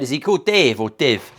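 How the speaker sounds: quoting a viewer. Retold or imitated. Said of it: "Someone said".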